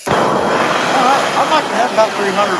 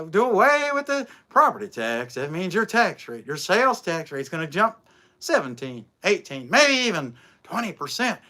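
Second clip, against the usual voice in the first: a hint of a folksy politician on TV reassuring folks; Mike DeWine impression; 5 semitones lower, 4 dB quieter than usual. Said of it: "Mike DeWine, he talks like this".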